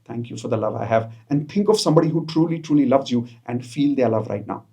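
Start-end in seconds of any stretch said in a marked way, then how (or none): 0.0-1.1 soft grateful affirmation. Shown as a demonstration. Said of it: "Say it with me right now".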